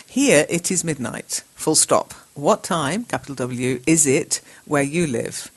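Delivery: slow reading with punctuation; dictating. Shown as a demonstration. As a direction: dictate the sentence slowly.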